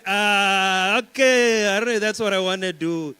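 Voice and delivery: loud, high, keen yes; mock-thrilled acceptance; eager agreement. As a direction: jump at the offer. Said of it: "I said".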